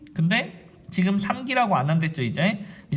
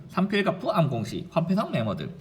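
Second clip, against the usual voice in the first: "삼필갑푸 암공시, 화폐성 메모드" as two rhythmic chunks; rhythmic recitation. Shown as a demonstration. Teacher showing students how to memorise, rhythmically. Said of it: "이 리듬을 좀 타면 됩니다".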